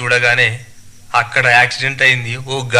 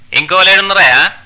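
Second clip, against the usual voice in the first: higher, loud conductor voice; questioning bus conductor; 6 semitones higher, 7 dB louder than usual. Acted. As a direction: demand who else is travelling. (గట్టిగా ప్రశ్నించే conductor)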